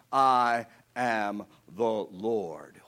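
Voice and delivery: very slow, breathy whisper; slow whispered "I am the Lord"; whispered proclamation. Acted. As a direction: hush it as the Lord's final word. Climactic divine proclamation.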